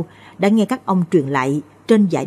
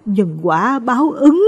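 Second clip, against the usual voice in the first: slow, higher, weighing each word; slow and grave; 6 semitones higher, slower than usual. Acted. Grieving mother slowly pronounces karmic retribution, slow and grave. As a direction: let the verdict fall slowly, syllable by syllable. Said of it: "chậm rãi nói".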